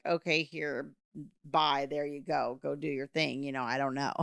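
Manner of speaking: a mildly imitated official who wants you gone; dismissive brush-off. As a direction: hand them off and be done with it.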